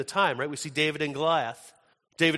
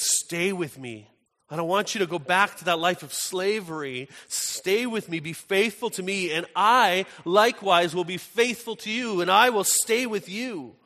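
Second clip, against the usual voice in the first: imploring, rising higher and louder as it builds; earnest retold plea; 4 semitones higher, 4 dB louder than usual. Husband asks her to stay and be faithful, earnest plea. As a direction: plead with growing conviction, voicing the husband.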